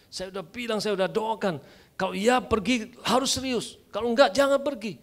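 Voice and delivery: high, loud, heated rebuke; retold angry scolding. Father rants about his child's broken promise, retold angry scolding. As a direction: scold as a fed-up father, pitch soaring. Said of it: "Dalam pesawat saya marah, dongkol sekali".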